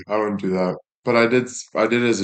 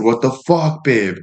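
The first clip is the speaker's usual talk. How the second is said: high, loud fake outburst at the girlfriend; hammed-up yell over pancakes; yelling at the girlfriend about breakfast, mock yell; 4 semitones higher, 3 dB louder than usual. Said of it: "I said".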